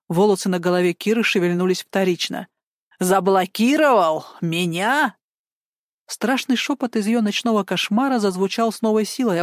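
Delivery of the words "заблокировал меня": outraged disbelief. Acted.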